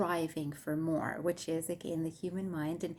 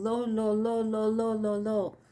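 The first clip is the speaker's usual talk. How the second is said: wailing lament, higher and louder; 4 semitones higher, 6 dB louder than usual. A narrator's reading. Heartbroken man in a madhouse, wailing his lost love's name. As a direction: cry out the name like a mourning wail. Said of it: "all they can hear is a wailing man".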